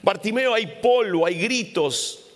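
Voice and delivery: reproche fuerte y más agudo; gente regañando. Acted. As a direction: callarlo con fastidio. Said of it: "se acerca y le dice". (la multitud le regaña con fastidio)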